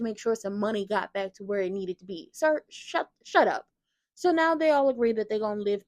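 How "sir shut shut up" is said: rising then louder exasperation; exasperated shut up. Acted. Fan cutting Drew off, loud and fed up. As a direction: cut him off, fed up.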